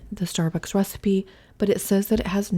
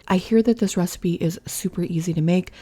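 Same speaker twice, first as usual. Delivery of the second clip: normal talking voice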